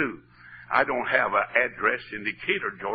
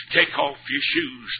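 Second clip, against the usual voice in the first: high-pitched call from on high; God calling out; 11 semitones higher than usual. Retold or imitated. God calls to Moses from the bush, calling out high.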